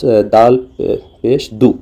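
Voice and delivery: दू stretched long and slow; drawn-out vowel. Shown as a demonstration. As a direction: draw out the ऊ in दू slowly. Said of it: "मारूफ को खींच के पढ़ा जाता है". (दू को खींच कर लंबा बोलें)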